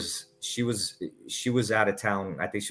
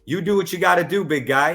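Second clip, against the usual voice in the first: mock coach; 7 semitones higher, 4 dB louder than usual. Frank calls his bluff.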